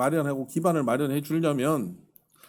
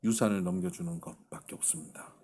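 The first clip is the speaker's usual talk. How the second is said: retold low, subdued confession; understated hopeless resolve; resolute despair; 4 semitones lower than usual. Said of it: "너무 단호한 거예요".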